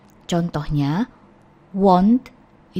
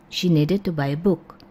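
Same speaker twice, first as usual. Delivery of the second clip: quicker speech; fast. Shown as a demonstration. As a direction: say "needed" fast with a short "it" ending. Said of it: "Kalau kita ngomongnya cepat".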